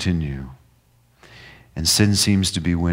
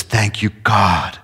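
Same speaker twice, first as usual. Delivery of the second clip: slow, softening thanks; slow grateful prayer; slower than usual. Acted. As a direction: let relief slowly into the words. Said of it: "he says".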